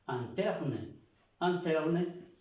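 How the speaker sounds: anterne, in as open a. Shown as a demonstration. Teacher drills anterne for students. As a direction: repeat anterne with an a. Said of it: "Esa I suena A o se pronuncia A".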